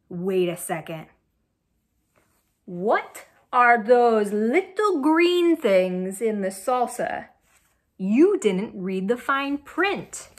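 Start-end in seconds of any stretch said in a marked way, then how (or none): 0.1-7.3 sudden suspicion. Acted. Noticing something in salsa.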